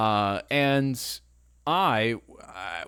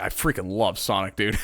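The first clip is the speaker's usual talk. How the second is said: lower, mock-earnest fanboy gush, love leaned on; mock Sonic fan; 7 semitones lower than usual. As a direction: play the proud Sonic-obsessed parent, lightly. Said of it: "You guys are like".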